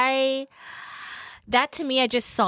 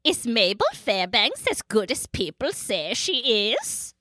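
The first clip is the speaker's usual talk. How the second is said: mock Norwegian accent. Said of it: "she deserves the Swedish chef treatment".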